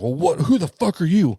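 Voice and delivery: mock outrage, punching up the pitch; retold indignant challenge. Officer confronts the man who scolded him, retold indignant challenge.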